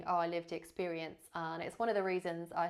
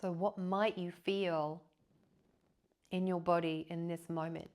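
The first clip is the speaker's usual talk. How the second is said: guided meditation. Real, not acted. Yoga teacher leading listeners into body awareness, calm guided meditation. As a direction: guide them gently into rest, leaving long silences.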